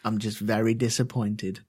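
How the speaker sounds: disappointed tone. Retold or imitated. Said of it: "it's even worse than that".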